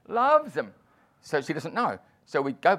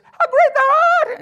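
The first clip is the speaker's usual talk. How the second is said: put-on much higher, louder drunken yell of the title; shouted request; 12 dB louder than usual. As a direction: holler the request across the room. Wife shouting her song request.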